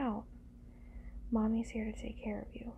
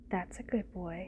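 ordinary delivery

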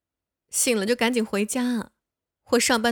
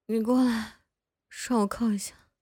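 intimate whisper. Acted. Drunk woman leaning on him in the elevator, whispering intimately. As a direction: breathe it close to his ear.

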